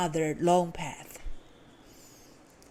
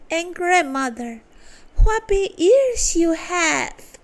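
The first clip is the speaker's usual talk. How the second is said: put-on girl exclaiming; 8 semitones higher, 4 dB louder than usual. A narrator's reading. Little Red Riding Hood staring at grandma in bed, high and amazed. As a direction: marvel at it, pitched up.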